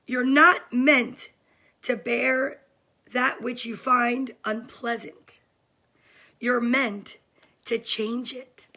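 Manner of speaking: slow, weighty read of a quote; reading a favourite book's line to viewers, slow and deliberate; reading aloud. Real, not acted. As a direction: read it slowly like a mantra. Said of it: "Are you guys ready to hear it?".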